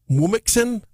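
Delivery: "Womixin" sounded out as woo-mix-in; sounded-out guess. Real, not acted. Attempts to sound out odd spelling.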